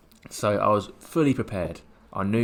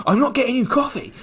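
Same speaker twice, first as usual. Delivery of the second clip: much higher, louder refusal; retold shout; 10 dB louder than usual. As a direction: yell it back at the scammer.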